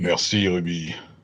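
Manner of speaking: put-on, fake deep voice. Joking while playing a character who wakes and is given water: pretend deep voice. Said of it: "Je fais semblant de parler d'une voix grave".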